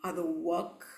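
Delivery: low, slow, hissing snake; unhurried threat in a deep snake voice; menacing snake. Acted. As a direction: stretch the s sounds into long hisses.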